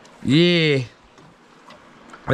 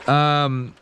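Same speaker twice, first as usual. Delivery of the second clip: ordinary talk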